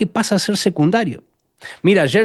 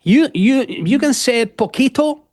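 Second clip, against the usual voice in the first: teasing the audience; 7 semitones higher, slower than usual. Retold or imitated. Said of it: "Y yo".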